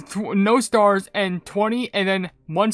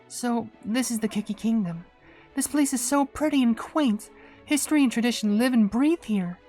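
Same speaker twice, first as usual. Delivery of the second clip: admiring visitor in a put-on higher voice; Golden Osmanthus Cookie; 4 semitones higher, 4 dB quieter than usual. Visitor admiring the quaint Cookie Kingdom, higher put-on voice. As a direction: take in the sights, lightly pitched up.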